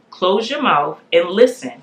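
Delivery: slow, deliberate instruction; clear command. Retold or imitated. Wife retelling the voice she heard in her head, slow and clear. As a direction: lay each word out clearly and slowly. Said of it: "I hear clear as day".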